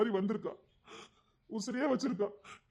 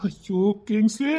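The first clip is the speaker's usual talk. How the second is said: exasperated sigh; 5 dB louder, much slower than usual. Acted. Friend exasperated with Kings.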